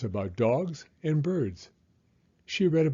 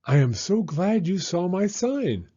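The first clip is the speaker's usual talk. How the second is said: high, louder chirpy delivery; chirping bird; 6 semitones higher, 5 dB louder than usual. A narrator's reading. Bird greets Rocket at her sign, chirpy high voice. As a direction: chirp it like an eager little bird. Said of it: "the bird chirped".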